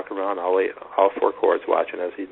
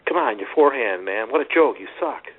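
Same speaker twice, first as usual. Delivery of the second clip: mock taunt, higher and louder on the joke; coach's taunt; 5 semitones higher, 3 dB louder than usual. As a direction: jeer at the forehand in passing. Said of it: "he said something like".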